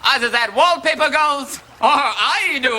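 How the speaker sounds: perfect aplomb. Retold or imitated. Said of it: "declared with perfect aplomb".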